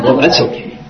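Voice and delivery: imitated meek relenting; demeanor cracked. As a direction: give in easily after protesting. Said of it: "his whole demeanor cracked".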